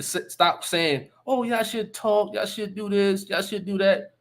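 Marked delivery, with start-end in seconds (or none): 1.3-4.1 mock soft talk. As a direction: parody the goody-goody commenters. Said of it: "stop with the soft talk".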